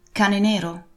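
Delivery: put-on young Jim's questioning tone; a hint of the boy's query; boy asking. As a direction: ask it uncertainly.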